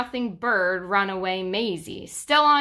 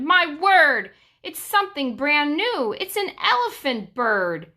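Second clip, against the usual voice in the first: much higher and louder cry of wonder; amazed shout; 6 semitones higher, 3 dB louder than usual. A narrator's reading. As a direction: shout it out, delighted and astonished. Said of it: "they shouted".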